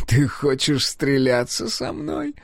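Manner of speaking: lightly voiced sneer at a duel challenge; mocking. A narrator's reading. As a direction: taunt him, slowly. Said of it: "насмешливо спросил Генрих".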